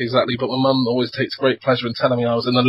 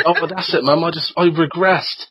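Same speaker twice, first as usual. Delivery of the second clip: laughing excuse; 4 semitones higher than usual. Retold or imitated. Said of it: "that's the excuse".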